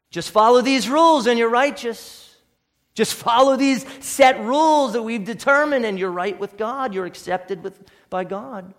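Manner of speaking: scornful imitation of self-righteous teachers; mock Pharisee voice. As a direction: parody the rule-makers' smug sales pitch. Mocking the Pharisees' rules.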